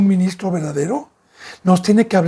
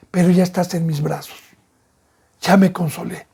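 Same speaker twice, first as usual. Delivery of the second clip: consoling father; 2 semitones lower than usual. Acted. Father comforting his crying son after saving him. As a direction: soothe the child in your arms. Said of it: "Pues ya le explico".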